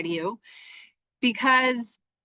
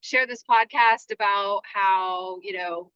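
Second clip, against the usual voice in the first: retold anxious thoughts. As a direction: spill the panic out quickly. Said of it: "anxiety came in".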